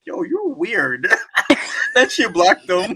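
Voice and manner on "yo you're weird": slow, flat-out brush-off; unimpressed girl. Retold or imitated. Girl shutting down a creepy buyer, slow and dismissive. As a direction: brush off a creepy client slowly. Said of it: "And she was like".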